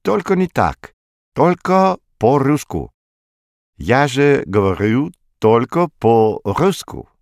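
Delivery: put-on high, excited French accent; exclaiming. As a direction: cry out in French-accented Russian. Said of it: "вскричал Мулар".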